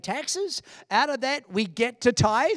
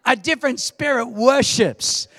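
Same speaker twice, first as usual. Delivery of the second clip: louder, insistent restatement; repeated louder for response; 4 dB louder than usual. Shown as a demonstration. Preacher repeating point after a weak crowd response. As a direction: say it again to wake them. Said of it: "Thank you for the underwhelming response".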